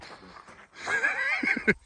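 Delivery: high-pitched laugh; short, high-pitched laughing fit. Real, not acted. Laughs after his own remark.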